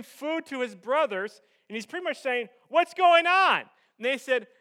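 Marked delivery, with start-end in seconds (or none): 2.7-3.6 higher, louder retold exclamation; eager questioning. Young David arriving at the battle line, eager questioning. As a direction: burst out asking, pitched up.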